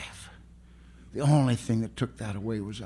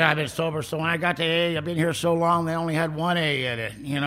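mock old-timer; 6 semitones higher than usual. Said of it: "He was one of those grateful alcoholics".

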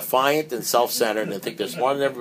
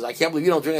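mock disbelief; 7 semitones higher, 3 dB louder, faster than usual. Guest amazed at not drinking.

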